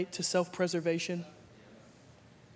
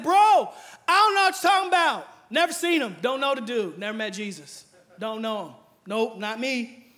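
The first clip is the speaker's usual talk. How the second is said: Peter shouting that he never knew Jesus; loud denial; 3 semitones higher, 6 dB louder than usual. Retold or imitated. Peter denying loudly.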